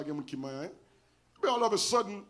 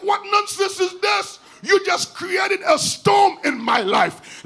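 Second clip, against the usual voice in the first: louder, slow, indignant retort; indignant outburst; 6 semitones higher, 4 dB louder, slower than usual. Retold or imitated. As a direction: throw it back at the boss in outrage. Angry retort to firing boss.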